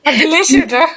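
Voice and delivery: lightly mimicked scolding film-character voice; mock scolding, a touch of impersonation; Telangana Shakuntala mimicry. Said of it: "Telangana Shakuntala mimicry చేసింది ఇప్పుడే".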